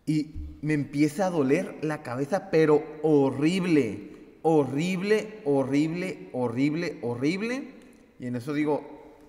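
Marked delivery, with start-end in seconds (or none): 2.5-7.7 slow, stretched horrible; slow pained repetition; drawn-out emphasis. Retold or imitated. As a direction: drag out each horrible in pain. Describing the terrible headache.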